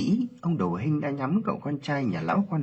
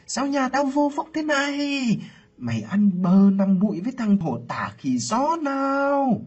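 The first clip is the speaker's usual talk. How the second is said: high, loud tearful screaming abuse; furious scolding; 5 dB louder than usual. Acted. Aunt screaming curses at her niece, furious shriek. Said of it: "nghiến răng hỏi".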